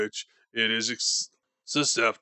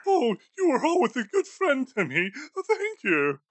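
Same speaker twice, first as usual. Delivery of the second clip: put-on higher, fast, fawning old miser; a nervous old man rushing out praise; hurried Scrooge. Scrooge thanks Marley.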